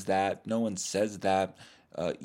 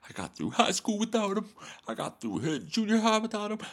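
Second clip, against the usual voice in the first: very high, impassioned teen impression; exaggerated emotional speech, pitched way up; Will. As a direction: parody a hurt son's defiant speech. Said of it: "that speech he made in Fresh Prince".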